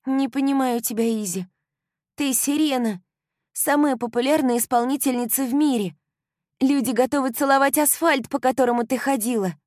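put-on high, loud, gushing young woman; bubbly best friend bursting with joy; excited girlfriend. A narrator's reading. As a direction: euphoric girl talking nonstop. Kylie insists.

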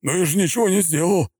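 frightened, high babble; stammering. A narrator's reading. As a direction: stammer in fear. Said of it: "пролепетал он".

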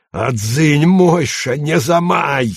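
gruff character bark; barked warning. A narrator's reading. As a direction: snap him back into place. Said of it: "рявкнул Волошин".

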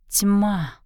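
slow, wondering; slowly. A narrator's reading. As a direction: draw the word out slowly. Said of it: "медленно произнесла она".

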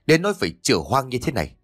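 a father's rage boiling over at his daughter; furious scolding that climbs to a rant. Acted. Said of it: "tức điên lên".

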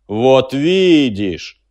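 slow, loud, menacing machine voice. A narrator's reading. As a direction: drag out each threat like a huge machine. Machine gloats. (угрожающий голос машины)

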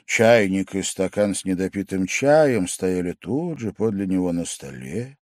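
usual speaking voice

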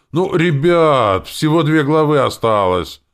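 high, loud, slow plea; pleading. Acted. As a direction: beg them for just a little longer. Lenora pleading with the boys. (умоляюще, высоко и громко)

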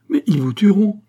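high, loud desperate warning; alarmed outcry. A narrator's reading. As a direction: cry out in dread for his life. Queen fears for king's life. (cri d'alarme, aigu et fort)

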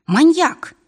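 high, loud burst of outrage; outraged accusation. A narrator's reading. Varvara to the attacker who hurt Misha, outraged. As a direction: throw the insult out in shock.

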